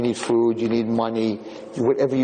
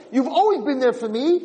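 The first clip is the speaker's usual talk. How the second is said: higher, lifted to a doubtful rise; grudging, hollow thanks; 8 semitones higher than usual. Retold or imitated. Ungrateful man echoing his donkey without real thanks. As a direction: say it without meaning it. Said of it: "he still didn't have hakaras hatoiv".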